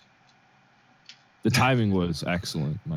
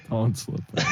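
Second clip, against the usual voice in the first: laughing shout; 3 semitones higher than usual. Pretend.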